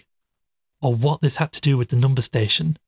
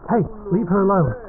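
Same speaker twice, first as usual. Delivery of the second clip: fast, much higher shout; urgent shout; 9 semitones higher, faster than usual. Acted. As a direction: yell to make them stop, fast. Cultists seize companion.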